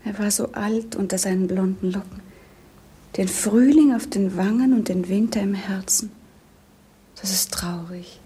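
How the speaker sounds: sad, breathy whisper; whispered lament. Acted. Princess grieving to her governess, in a whisper. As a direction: whisper it as if afraid to be heard.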